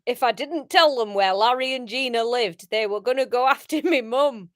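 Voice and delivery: Northern Tim. Acted. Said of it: "sputtered Tim".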